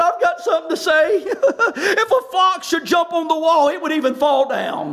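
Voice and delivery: imitating a jeering heckler with a mock laugh; Tobiah. A rascal heckles the wall builders, mock laughing. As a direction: deliver a corny taunt, chuckling partway through. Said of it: "He's over there laughing".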